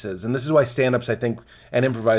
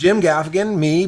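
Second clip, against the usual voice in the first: usual speaking voice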